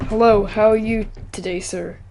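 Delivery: attempted general American accent; central American accent. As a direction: tentatively imitate an American accent. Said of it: "in the type of accent that I speak".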